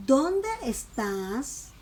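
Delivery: slow DÓNDE, estás stretched and rising; teacher's drawn-out example question, lifting on estás; question intonation. Shown as a demonstration. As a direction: model "¿Dónde estás?" slowly as a clear question. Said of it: "la pronunciación cambia".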